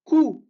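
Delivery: each syllable said alone and held, ou, bou, tou; teacher calling out syllables one by one; syllable drill. Shown as a demonstration. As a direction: model each sound for students to repeat. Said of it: "dernière ligne".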